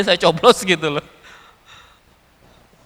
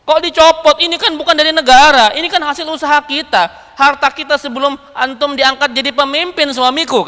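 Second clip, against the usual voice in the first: higher, louder wifely protest, easing off toward the end; indignant complaint; 4 semitones higher, 3 dB louder than usual. Retold or imitated. Wife objects to her husband giving up their own property, indignant. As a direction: protest as a wife who feels wronged. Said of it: "Istrinya komplain".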